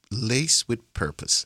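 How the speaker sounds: "Lace with Purpose" slowly, with no A before Purpose; careful correct pronunciation. Shown as a demonstration. Host proving he has learned the podcast's name, slow careful pronunciation. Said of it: "I got it".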